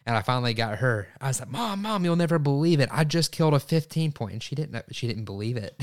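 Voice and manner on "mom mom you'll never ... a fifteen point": higher and louder, bursting with the news; excited news. Retold or imitated. Hunter calling his mom after the kill, excited. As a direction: blurt it out to mom, thrilled.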